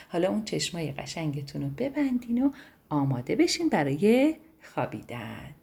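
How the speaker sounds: soft bedtime voice. Real, not acted. Storyteller telling the children to close their eyes, softly. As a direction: ease them toward sleep.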